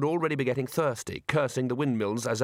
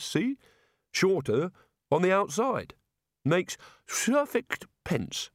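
raised, rambling voice of a beer-soaked wizard; tipsy Rincewind; 4 semitones higher than usual. Acted. Drunk Rincewind rambling theory.

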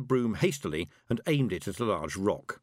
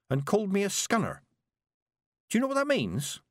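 put-on high, wide-eyed girl voice; girl amazed by what she saw; wonderment; 9 semitones higher than usual. A narrator's reading. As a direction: tell it full of wonder. Petulia telling fairy story.

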